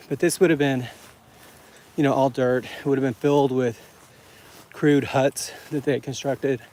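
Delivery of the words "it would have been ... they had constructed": heavy breathing while climbing. Real, not acted. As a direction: talk between heavy breaths. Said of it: "Pardon my heavy breathing".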